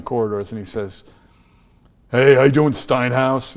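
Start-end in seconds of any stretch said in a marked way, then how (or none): 2.1-3.5 loud, brash Brooklyn greeting; mock Brooklyn hello, punched out loud; Brooklyn accent. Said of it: "he didn't say it like that 'cause he's not from Brooklyn".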